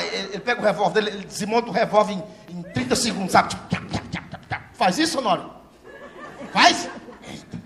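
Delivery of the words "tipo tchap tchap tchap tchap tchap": gun clicks. Retold or imitated. Gun disassembly sound imitation.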